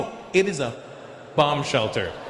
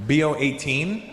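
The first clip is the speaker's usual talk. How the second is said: rising, questioning echo; puzzled echo, lifting at the end; slower than usual. Acted. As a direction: repeat it back as a query. Comedian queries the odd name.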